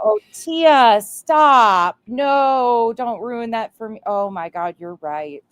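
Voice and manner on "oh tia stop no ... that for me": shocked protest. Real, not acted. Friend's joke shocks her.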